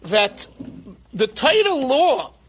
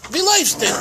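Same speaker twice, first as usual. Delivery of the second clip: higher-pitched Galician Yiddish, "Wie" as "vee"; Polish Galician accent; 5 semitones higher, faster than usual. Retold or imitated. Rebbe asks his running student, in Polish Galician accent. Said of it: "uh, Polish Galician accent".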